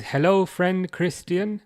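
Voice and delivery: slow translation read. Shown as a demonstration. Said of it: "I'll just do it in my Birmingham accent".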